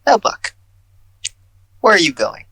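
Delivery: high, loud call after someone. Acted. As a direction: call out to him as he leaves. GM calls after character.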